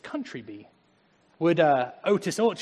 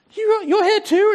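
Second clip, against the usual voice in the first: high, loud, slow astonished question; imitated surprise; 11 dB louder, slower than usual. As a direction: gasp it out as if amazed. Doctor surprised meeting in heaven.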